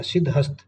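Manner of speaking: सिद्धहस्त with the ह sounded; सिद्धहस्त in two parts, siddh plus hast; correct pronunciation. Shown as a demonstration. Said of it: "सिद्धहस्त होता है".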